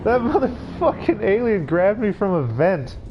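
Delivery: angry. Real, not acted. Ranting after the scare.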